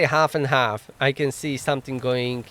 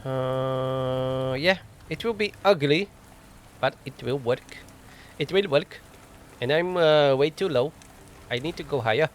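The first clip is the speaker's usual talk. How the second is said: lightly put-on Indian accent. Gamer muttering about an ugly quick fix, in a put-on Indian accent. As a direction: slip playfully into an Indian accent. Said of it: "I switched to Indian".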